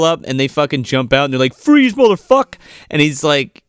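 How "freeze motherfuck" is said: loud, high cop shout. Retold or imitated. Cops jumping out at the killer, loud shout. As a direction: bark it like a cop drawing a gun.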